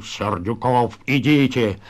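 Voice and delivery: understated stern order; stern, resolute. Acted. Залетаев orders Сердюков to go, stern and resolute. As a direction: give a firm, restrained command. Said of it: "грозно решительно".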